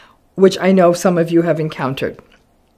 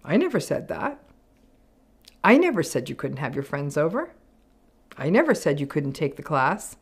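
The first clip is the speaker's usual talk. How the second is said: gaslighting denial; 4 semitones lower, 6 dB quieter than usual. Retold or imitated. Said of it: "a narcissistic person's gonna turn around and say".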